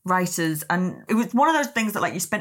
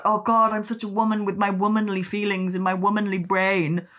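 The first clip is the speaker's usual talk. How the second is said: mocking gushing woman. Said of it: "it was always about".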